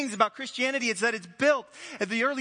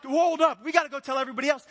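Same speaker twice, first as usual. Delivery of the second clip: louder, higher, fast and breathless; excited rush; 5 semitones higher, 4 dB louder, faster than usual. Acted. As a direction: hurry the news out. Disciples rushing back excited.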